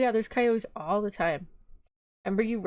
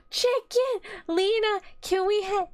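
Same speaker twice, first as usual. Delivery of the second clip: high-pitched excited call to someone nearby; 11 semitones higher than usual. Real, not acted. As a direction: call out with a sudden high burst. Calling to Lena for chicken.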